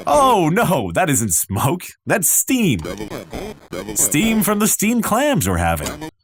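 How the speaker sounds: lightly played nervous host explaining away; flustered cover-up. Host excusing the oven smoke to his boss, mildly flustered.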